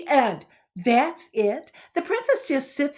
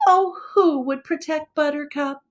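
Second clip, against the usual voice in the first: hammed-up tearful wail; mock crying. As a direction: fake a sob for the poor pony. Girl lamenting the last pony.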